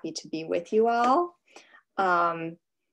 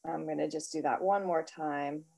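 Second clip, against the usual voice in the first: soft, unhurried meditation voice; guided meditation; 9 dB quieter than usual. Real, not acted. Host leads writers in a breath after the singing bowl, guided meditation. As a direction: settle listeners quietly into their breath.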